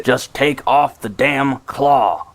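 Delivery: irritated and done waiting; exasperated demand. Acted. Skids impatient while trapped.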